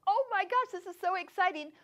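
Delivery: high-pitched retold excitement; excited reply. Teacher replies to fan with people lined up behind, excited. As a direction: gush back, starting high.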